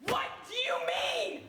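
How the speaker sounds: slow, loud outraged demand; exasperated shout. Acted. Frustrated widow demanding answers from the bank manager, shouting. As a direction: throw the question back at him.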